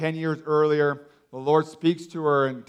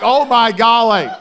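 amazed; 6 semitones higher, 9 dB louder than usual. Retold or imitated. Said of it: "I'm like".

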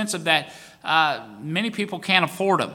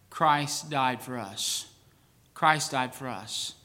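soft, slow repeat of the verse; quiet; 6 semitones lower, 9 dB quieter, slower than usual. Real, not acted. Preacher hushing the verse to his congregation, quiet. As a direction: let it sink in, hushed.

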